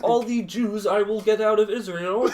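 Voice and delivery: put-on puppet frog voice; Kermit the Frog. Podcaster as puppet finishing a mock rant, frog impression. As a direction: rant as a cartoon frog zealot. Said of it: "Kermit the Frog".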